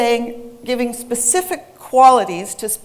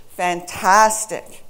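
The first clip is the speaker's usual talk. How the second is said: FANTASTIC drawn out on the middle syllable; slow fan-TAS-tic for "Fantastic", middle punched; stress demonstration; 3 semitones lower, much slower than usual. Shown as a demonstration. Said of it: "that's the way stress works".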